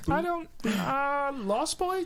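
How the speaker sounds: high, slow starstruck question; high excited fan voice. Retold or imitated. Fan voice again.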